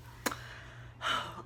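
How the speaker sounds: soft shaky breath out; a quiet sigh, moved; emotional sigh. Real, not acted. Overcome while showing her crown, a soft sigh. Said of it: "I don't know why I'm getting emotional".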